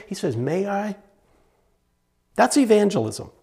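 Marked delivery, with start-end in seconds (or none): 0.3-1.0 gentle, tentative request for permission; polite request. Retold or imitated. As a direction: ask considerately, no pushing. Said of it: "He doesn't jam his foot in it".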